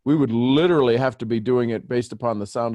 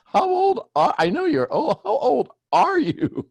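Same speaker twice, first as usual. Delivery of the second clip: mock astonishment. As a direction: play up the shock at his age. Mock reaction to his age.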